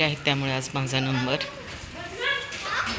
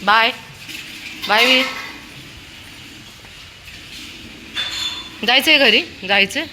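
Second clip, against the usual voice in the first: calling dog home; 7 semitones higher than usual. Real, not acted. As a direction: order the dog home, getting impatient. Owner calls dog home.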